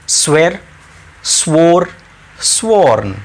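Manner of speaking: स्वेर, स्वोर, स्वोर्न with each vowel said clearly and separately; teacher spelling out the sounds of स्वेर, स्वोर and स्वोर्न; careful pronunciation. Shown as a demonstration. Teacher asking students to mind the sound, careful and clear. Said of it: "sound पे ध्यान दें please".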